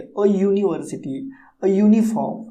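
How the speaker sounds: यूनिवर्सिटी and यूनिफॉर्म each starting with a य glide after अ; short अ, then a clear y opening यूनिवर्सिटी and यूनिफॉर्म; यूनिफॉर्म begun "yoo", like यूनिवर्सिटी; initial Y sound. Shown as a demonstration. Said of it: "य का sound निकल रहा है".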